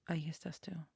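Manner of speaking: breathy whispered line to end the verse; hushed lyric ending; soft whisper. Acted. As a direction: let the last words fall to a hush. Reciting a love lyric.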